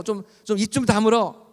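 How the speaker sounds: mildly acted telling-off; scolding. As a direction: lightly imitate an annoyed crowd hushing someone. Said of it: "막 바디메오를 야단치고".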